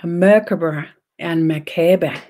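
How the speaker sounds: first Merkaba said in English, second as Danish mækebæ; Danish pronunciation. Shown as a demonstration. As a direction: say Merkaba, then the Danish Merkaba with open vowels. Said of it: "in Danish".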